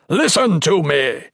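high, loud demand; shouting. Acted. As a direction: force them to listen. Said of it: "Kaimas yelled".

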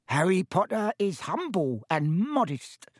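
high, slow, awed elf voice; reverent. A narrator's reading. Elf praises his hero, reverent. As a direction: savour each word with worshipful squeak. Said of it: "said Dobby reverently".

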